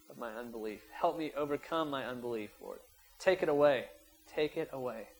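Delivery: earnest prayer rising then falling; modeled prayer. Shown as a demonstration. Preacher showing the church how to pray earnestly. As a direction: pray it out the way they should.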